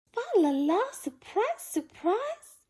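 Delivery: high, sung-out surprise call; singsong surprise. A narrator's reading. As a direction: sing it out like a gift reveal. Tim bringing home the tree.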